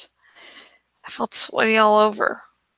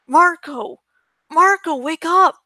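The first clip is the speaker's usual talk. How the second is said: calling out; 7 semitones higher, 3 dB louder than usual. A narrator's reading. Dad waking him from nightmare.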